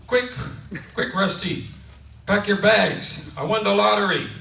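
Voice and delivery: breathless-to-share-it storyteller's wife; excited wife. Acted. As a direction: burst in with thrilling news. Wife announces lottery win.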